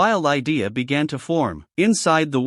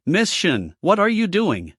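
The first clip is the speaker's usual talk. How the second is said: flustered; 4 semitones higher than usual. Acted. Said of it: "said flusturdly".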